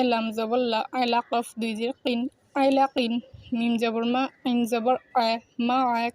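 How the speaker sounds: measured Arabic spelling recitation, evenly pitched; spelling-out drill. Shown as a demonstration. Teacher spelling out words for learners, letter-by-letter recitation. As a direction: spell out each letter and vowel, then join the syllables. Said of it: "বানান সহিত উচ্চারণ করেছি".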